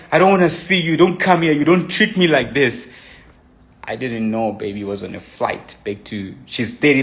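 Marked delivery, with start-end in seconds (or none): 0.1-2.9 higher, raised mock anger; retold angry outburst. Telling his girlfriend not to come home, in retold anger. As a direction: throw it back at her like a hurt lover.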